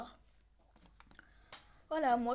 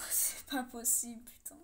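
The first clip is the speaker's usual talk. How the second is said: laughing disbelief; slower than usual. Real, not acted. Second place again.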